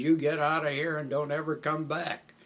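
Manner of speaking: loud, high angry dismissal; retold yell, ordering someone off; imitated raving. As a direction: send them packing at full voice. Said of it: "Sam started raving".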